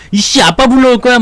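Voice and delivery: put-on a kid in a scuffle crying he'll bring his dad; bratty kid threat. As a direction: shout it like a sulking child. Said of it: "막, 씨, 막 그러는데".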